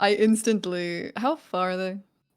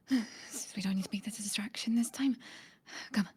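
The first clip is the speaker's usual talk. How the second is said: soft urgent whisper; whispering to a companion to slip away quietly; 8 dB quieter, faster than usual. Acted. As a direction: hush her, don't draw attention. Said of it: "as, like, a whispered thing".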